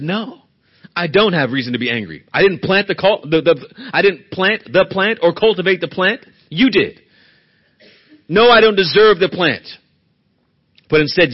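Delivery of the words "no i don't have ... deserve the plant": raised, earnest confession; humble admission. Acted. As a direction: plead it out with conviction. Preacher voices Jonah's ideal answer.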